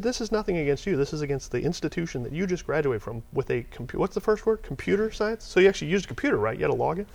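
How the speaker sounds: high-pitched, incredulous grilling; retold exasperated rant. Interviewer grilling graduate about his computer science degree, exasperated retelling. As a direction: re-enact a fed-up tirade without yelling. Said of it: "I got so pissed off".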